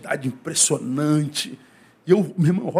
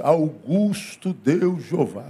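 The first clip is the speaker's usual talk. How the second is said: slow, solemn churchy intonation, stretched out; mock solemn prayer to God; pompous prayer voice; 2 semitones lower, much slower than usual. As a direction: intone it like an overdone liturgical prayer. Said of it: "que língua é essa que você tá falando".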